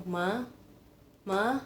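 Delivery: ma rising like calling mama; second tone again. Shown as a demonstration. Teacher recalling the rising tone for students, calling mama. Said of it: "cara inget-ingetnya kayak gitu".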